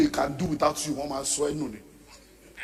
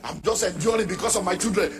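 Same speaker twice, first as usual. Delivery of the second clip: a hint of the weary wife, higher; wife voiced; 5 semitones higher, 4 dB louder than usual. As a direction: lightly voice the wife confiding in the pastor. Wife's words voiced in sermon.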